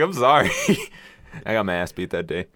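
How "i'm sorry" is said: high, louder whimpering sorry; meek kid apology. Retold or imitated. Kid apologising to his angry mom, high and meek. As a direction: apologise like a caught child. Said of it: "I'm like".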